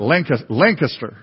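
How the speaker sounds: Lancaster as LANK-uh-ster, tried twice; practised local pronunciation. Shown as a demonstration. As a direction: practise Lancaster with a weak, quick middle syllable. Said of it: "I have to really work on that".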